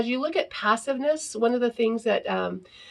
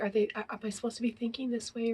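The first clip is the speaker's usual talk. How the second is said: inner doubt; 7 dB quieter, faster than usual. Retold or imitated. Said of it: "We might think".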